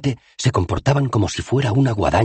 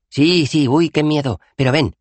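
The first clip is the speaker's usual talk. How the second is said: raised-pitch coaxing, playing along; soothing, humouring; 11 semitones higher, 4 dB louder than usual. A narrator's reading. Dos Flores tugs dazed Rincewind along, humouring and reassuring. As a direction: humour him as you coax him away. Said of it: "insistió Dos Flores tranquilizador".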